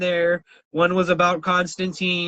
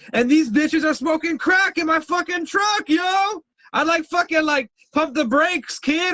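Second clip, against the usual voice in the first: shocked outburst; 9 semitones higher than usual. Retold or imitated. Shocked retelling of crackhead passengers.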